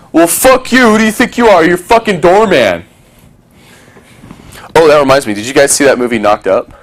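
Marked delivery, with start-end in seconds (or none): 0.1-2.9 high, hammed-up indignant yell; mock angry outburst. Snapping at the bouncer who refused him, high mock rage. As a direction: pretend to blow up at the bouncer. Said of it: "Now, I could be like".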